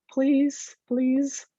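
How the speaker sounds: high pleading please. Real, not acted. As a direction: beg the screen to work. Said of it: "I hope my screen sharing works".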